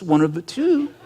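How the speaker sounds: normal talking voice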